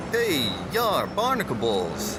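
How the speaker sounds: a lightly hammed pirate insult; imitating the pirate. Cop imitating the half-naked man for the reporter, mock pirate. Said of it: "he's going".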